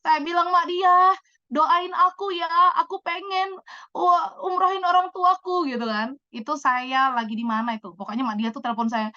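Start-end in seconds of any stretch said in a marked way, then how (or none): 0.5-5.7 mock sobbing plea, slow and drawn out; retold tearful plea. Begging Mak Diah on a video call to pray, mock tearful. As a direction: plead in a stretched, slightly high mock cry. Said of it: "nangis terseduh-seduh".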